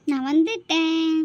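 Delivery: loud, slow announcement of arrival; calling out arrival. Acted. Girl announcing her arrival to the house, called out loud. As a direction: sing out that you're home.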